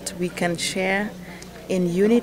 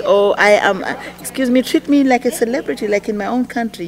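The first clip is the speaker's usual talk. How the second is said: loud, higher haughty celebrity voice; mock celebrity; 4 semitones higher, 6 dB louder than usual. Mocking a celebrity who wants special treatment, loud and haughty. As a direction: play the stuck-up star demanding special treatment. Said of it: "they're celebrities".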